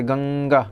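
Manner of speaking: "गंगा" with the nasal ṅ held before gā; nasal anusvara. Shown as a demonstration. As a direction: draw out the nose-made "ng" in "गंगा". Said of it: "नासिका यानी नाक से होता है".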